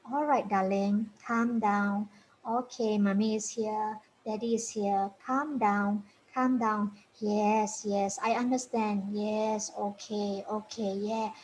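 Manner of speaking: put-on soft, soothing talk to a melting-down child; calm a distressed child gently; soothing parent. Shown as a demonstration. Parent soothing a child in meltdown, softly. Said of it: "then you talk quietly to this child".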